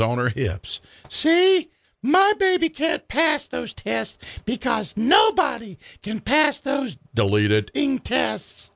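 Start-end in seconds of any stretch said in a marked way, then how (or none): 1.1-7.0 put-on much higher, slow, swaying drunk screech; drunk shrieking mother. Drunk Darla insisting to the cop nobody passes, high and slurred. 7.7-8.7 put-on much higher, slow, swaying drunk screech; drunk shrieking mother. Drunk Darla insisting to the cop nobody passes, high and slurred.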